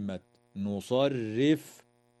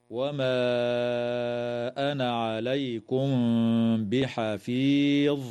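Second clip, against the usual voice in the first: Quran recitation. Shown as a demonstration. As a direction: intone and stretch the last word. Recites the verse.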